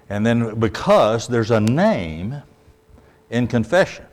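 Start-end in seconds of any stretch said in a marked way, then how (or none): 1.3-2.4 slow, with weight landing on "name"; stress on name. Shown as a demonstration. Preacher teaches what confession holds, stressing "name". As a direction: set "name" out as the key word. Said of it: "I emphasize this word name".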